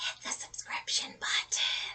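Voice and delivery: slow, hushed, whispered little aside. A channel host welcoming viewers back to the channel, whispering.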